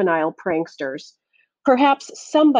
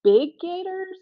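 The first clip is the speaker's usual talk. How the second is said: flabbergasted; 2 semitones higher, 4 dB louder, much slower than usual. A narrator's reading. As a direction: ask it in disbelief. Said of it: "Curly was flabbergasted".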